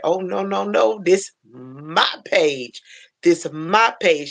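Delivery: slow, emphatic mock telling-off; imitated snap-back. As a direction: imitate her staking her claim, drawn out. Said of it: "she snapped back at him".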